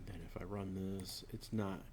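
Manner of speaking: a soft unvoiced aside, not for the class; whispered aside. Real, not acted. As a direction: murmur it to yourself while running the code. Muttering to himself while testing code.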